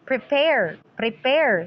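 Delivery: "Prepare" with the stress on PARE; stress on second syllable. Shown as a demonstration. Teacher showing students a stressed second syllable, final-syllable stress. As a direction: lean on the last syllable of "Prepare". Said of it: "So the second syllable is, uh, stressed".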